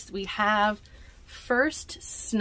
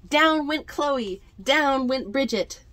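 excited narration; 5 semitones higher, 5 dB louder than usual. A narrator's reading. Narrating exciting sled ride.

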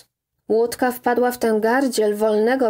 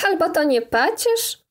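higher-pitched, lightly merry reply; cheerful retort; 6 semitones higher than usual. A narrator's reading. Woman answers the scolding boatman, cheerful higher-pitched retort. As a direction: toss back a cheery question. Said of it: "odparła wesoło".

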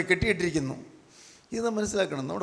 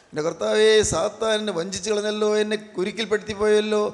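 mild, raised cry of regret to God; acted lament. Preacher voices a sinner crying to the Lord, acted lament. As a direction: cry out as a penitent, a touch pleading. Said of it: "എന്നുള്ള നിലവിളി നമുക്കുണ്ടോ".

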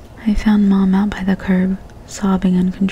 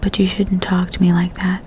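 soft. Acted. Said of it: "she said softly".

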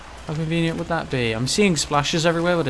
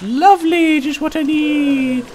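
sarcastic; 12 semitones higher, 4 dB louder than usual. Real, not acted. Enemy appears, sarcastic.

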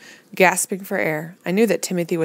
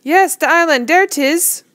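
louder, higher happy Caribbean voice; laughing gladly; 11 semitones higher, 6 dB louder, slower than usual. A narrator's reading. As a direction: announce it with glee. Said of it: "He laughed".

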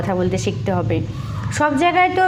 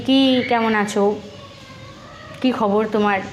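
heavy glum greeting. Shown as a demonstration. Teacher shows a glum greeting with a sullen face. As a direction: greet them lightly heavy and joyless. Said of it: "ভারী ভারী".

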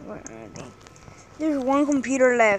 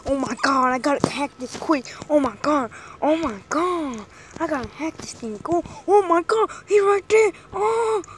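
playful mock panic, a bit louder; panicking gamer; 4 dB louder than usual. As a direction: act out frantic hacking nerves. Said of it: "you're just like".

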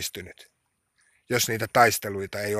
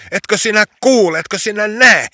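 high, loud pleading to God; distressed cry; 10 semitones higher, 8 dB louder than usual. Retold or imitated. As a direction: cry out in urgent prayer, pitched high. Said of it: "täällä hädissäni ja peloissani". (hätääntynyt, korkea ja kova rukoushuuto)

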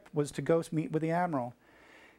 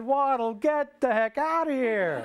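high, drawn-out mock yell; exasperated dismissal; 8 semitones higher, slower than usual. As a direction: stretch it out as you order him out. Admiral throws out the cheering midshipman.

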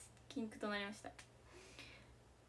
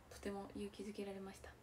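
1 whispered thanks; 4 semitones lower, 10 dB quieter, faster than usual. Real, not acted. Heartfelt thanks to the players.

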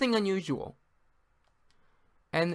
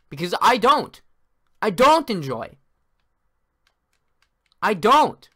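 frustrated yelling; 4 semitones higher, 6 dB louder, slower than usual. Real, not acted. Frustrated gamer ranting.

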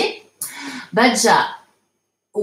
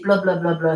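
"bla, bla, bla, bla" on an even, unaccented tune; intonation plate; 3 semitones lower, faster than usual. Shown as a demonstration. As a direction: give every "bla" the same weight, no melody. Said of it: "c'est plat". (« bla, bla, bla, bla » dit à plat)

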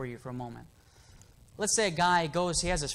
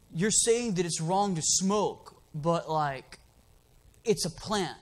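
put-on slow, dopey young guy voice; imitating the kid; slower than usual. Young man argues with the preacher about smoking, slow and dopey. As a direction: drag it out like a stoned kid. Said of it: "he actually talked like this".

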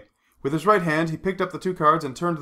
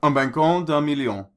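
quiet croupier announcement. A narrator's reading. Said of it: "announced quietly".

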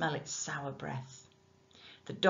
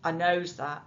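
shouting; 5 dB louder than usual. Acted. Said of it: "Nick shouted back".

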